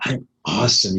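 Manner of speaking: heartfelt, upbeat claim; energised. Shown as a demonstration. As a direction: really put your energy into it. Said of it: "really put your energy into it".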